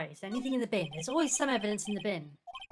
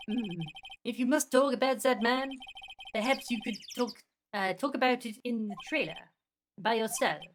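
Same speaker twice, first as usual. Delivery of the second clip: lightly put-on French accent; dismissive character voice with a French accent. Vasquez sending them to the trailer, French accent. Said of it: "My French accent is amazing".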